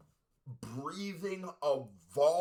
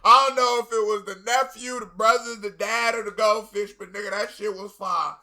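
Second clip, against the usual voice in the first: loud, high hype; loud and high, hyping the verse to the viewers; hyped; 5 semitones higher, 9 dB louder than usual. Real, not acted. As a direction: praise the verse all fired up. Hyped sign-off after the verse.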